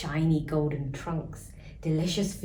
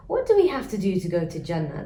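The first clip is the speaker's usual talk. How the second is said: put-on eager children; 5 dB louder, faster than usual. Twins eager question.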